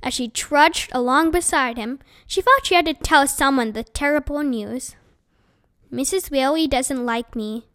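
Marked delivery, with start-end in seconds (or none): 5.9-7.7 flat voice. Acted. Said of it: "she said in a flat voice".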